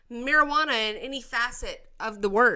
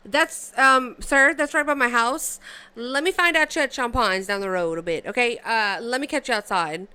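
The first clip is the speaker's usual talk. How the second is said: loud, half-joking tough-guy warning; mock threat; 4 dB louder than usual. Streamer warning the senator away from his town, loud mock threat. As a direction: act like you'll meet him outside.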